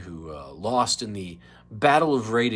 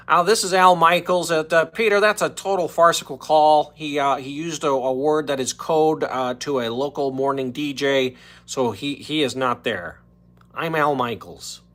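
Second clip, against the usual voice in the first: high, loud announcer voice; Billy West's Al Michaels; 6 semitones higher, 10 dB louder than usual. Retold or imitated. Host does Billy West's Al Michaels calling the show, loud and high. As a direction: blare it like a sportscaster calling in. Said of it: "the Billy West impression of Al Michaels".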